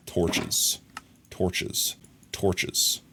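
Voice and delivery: breathy whisper, repeating the word. Real, not acted. Muttering to herself while crafting, whispered. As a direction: whisper it to yourself.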